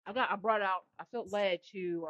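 munching while talking; mouth full. Real, not acted. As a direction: talk through a mouthful of food. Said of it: "Sorry if you hear me munching".

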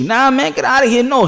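hammed-up get-lost; brushing God off. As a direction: wave off a tagalong in a high voice. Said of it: "Now I'm rolling with you".

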